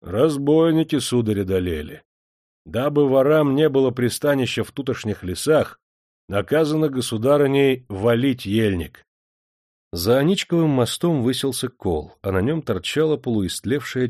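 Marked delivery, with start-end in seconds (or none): 0.0-9.0 put-on gloomy old guard. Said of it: "хмуро поглядев".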